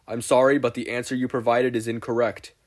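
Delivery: loud canned-reply voice; automated rejection, like a machine; robotic error message. Acted.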